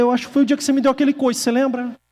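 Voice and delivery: quick, high-pitched comeback; rushed imagined retort. Retold or imitated. Preacher imagining his reply about the kick, rushed retort. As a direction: rattle off the imagined accusation. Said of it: "mas não falei isso, só pensei".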